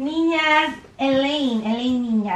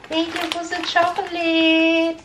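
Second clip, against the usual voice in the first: prompting thank-you; 3 semitones higher, slower than usual. Shown as a demonstration. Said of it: "Sabi mo kay Tita Ninya".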